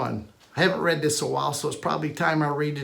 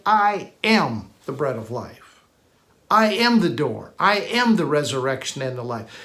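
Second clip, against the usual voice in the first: calm declaration; 3 semitones lower than usual. Retold or imitated. Preacher voicing Jesus declaring who he is, low and sure. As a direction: state it as settled fact. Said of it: "He said".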